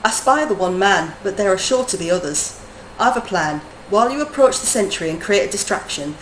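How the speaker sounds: lightly put-on, amateur Brummy accent; terrible Brummy accent. Streamer voicing a game character with orders, terrible Brummy accent. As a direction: read it in a bad attempt at Brummy. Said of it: "go back into my terrible Brummy type accent".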